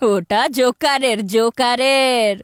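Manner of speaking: drawn-out mocking. Boy mocks sister's joker poster.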